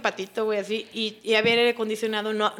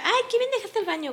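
mock gushing praise; 10 semitones higher than usual. Roommate's gushing praise, acted out.

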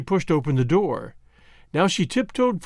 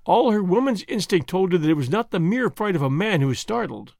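usual speaking voice

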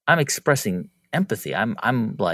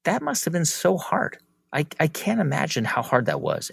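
empathetic reply; 5 semitones higher than usual. Retold or imitated. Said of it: "I'm just saying".

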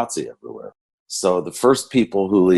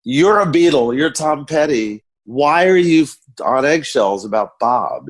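incredulous thought; 7 semitones higher than usual. Retold or imitated. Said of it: "and I'm thinking".

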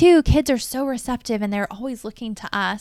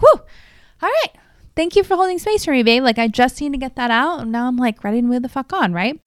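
relieved release; 3 semitones higher, 5 dB louder than usual. Retold or imitated. Retold thanking husband after venting.

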